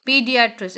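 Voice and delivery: "पीडियाट्रिस्ट" said with "pee" at the start; pronunciation demo. Shown as a demonstration. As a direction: model "पीडियाट्रिस्ट" as pee-di-a-trist. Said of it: "क्या पढ़ेंगे".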